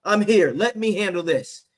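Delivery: loud, high barking comeback; angry retort. Pretend. Player telling the cautious coach to shut up, loud and fierce. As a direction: shout down the coach.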